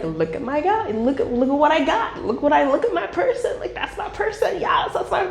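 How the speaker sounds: high, excited bragging that breaks into a shout; proud partner gushing. Retold or imitated. Partner showing them off to friends, gushing excitedly. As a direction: show off your partner like a prize. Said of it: "for them to be like".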